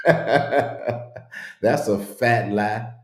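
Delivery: slow words through laughter; laughing. Real, not acted. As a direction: laugh out the whole line. Laughing at a comment.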